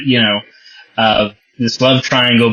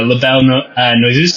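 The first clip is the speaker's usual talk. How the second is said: "La Belle Noiseuse" tried in a clumsy French accent, stalling midway; terrible French accent. Shown as a demonstration. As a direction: stumble through "La Belle Noiseuse" in bad French. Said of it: "Sorry for my terrible French accent".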